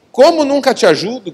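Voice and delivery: high, indignant mock yell; retold yell back. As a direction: throw it back as a protest. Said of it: "Gritei de volta".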